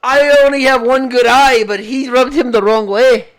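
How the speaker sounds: put-on loud English accent sliding into Scottish; badly faked English, coming out Scottish. Co-host copying Bisping's commentary, bad English accent. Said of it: "why is my English accent a fucking Scottish".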